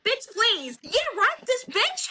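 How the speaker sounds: hammed-up scornful ranting; mock rant. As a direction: sneer it like someone muttering at her phone. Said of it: "ranting to herself and answering herself".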